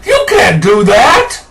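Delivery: hammed-up outraged objection; mock objector. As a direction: play the shocked critic. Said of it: "Obama says he has a pen".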